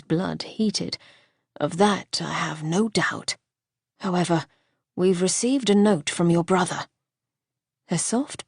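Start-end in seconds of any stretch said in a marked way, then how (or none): 1.6-6.9 Archer's voice. Acted. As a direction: shift to business gently.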